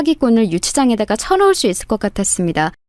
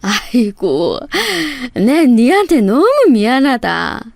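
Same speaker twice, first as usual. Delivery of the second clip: put-on sorrowful old mother's voice; tearful apology. A narrator's reading. Mother-in-law apologising from hospital bed, tearful. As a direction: lament with heavy regret. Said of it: "하염없이 눈물을 흘리시면서".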